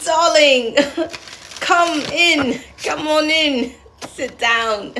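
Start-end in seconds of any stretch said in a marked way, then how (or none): 0.0-3.7 put-on higher, playful British accent welcome; mock British hostess. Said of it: "could be from the U K".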